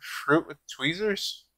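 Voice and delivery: mouth full. Real, not acted. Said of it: "are you eating fruit".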